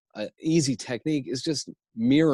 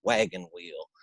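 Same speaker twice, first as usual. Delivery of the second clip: prairie Pa. Shown as a demonstration. Pa asking Billy's help with wagon, slow prairie voice. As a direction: call to the boy, then drawl it slowly. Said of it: "Little House on the Prairie type of scene".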